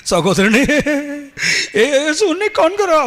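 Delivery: high, slow, put-on weeping preacher voice; mock tearful preacher. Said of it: "கண்ணீர் வர்ற மாதிரி பேசுவாங்க". (போலியாக அழுவது போல உயர்ந்த குரலில் மெதுவாக பேசும் போதகர்)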